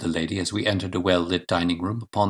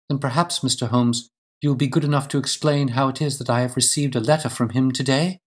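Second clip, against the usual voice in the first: a hint of a lady politely challenging; slightly higher, pointedly polite; lightly voiced challenging lady; 6 semitones higher than usual. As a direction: lightly play a wife confronting the detective.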